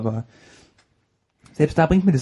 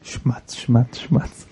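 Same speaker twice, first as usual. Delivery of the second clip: smacking noises; 3 semitones lower, much slower than usual. Retold or imitated. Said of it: "Herr Snyder frisst".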